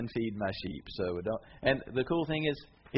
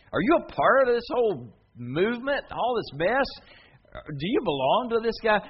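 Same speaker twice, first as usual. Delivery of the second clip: much higher, louder accusing voice; accusing challenger; 10 semitones higher, 8 dB louder than usual. Pretend. The world challenging a believer, higher accusing voice. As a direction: confront him like a suspicious crowd.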